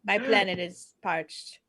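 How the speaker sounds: slow robotic alien voice; stiff, deliberate alien speech; old speech synthesizer. Acted.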